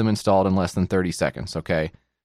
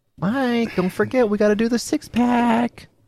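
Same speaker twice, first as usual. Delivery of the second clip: very high-pitched calling voice; 11 semitones higher than usual. Greeting a guest, imitating a mom waking a kid up before school. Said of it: "doing the voice of your mom waking you up before school".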